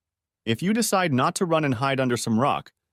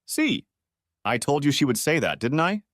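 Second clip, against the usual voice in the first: sitcom aside; 3 semitones higher than usual. Acted. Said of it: "turns to the audience and says".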